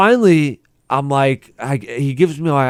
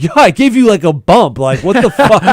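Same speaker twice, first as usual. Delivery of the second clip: retold indignant yell; 6 semitones higher, 4 dB louder than usual. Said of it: "I was like".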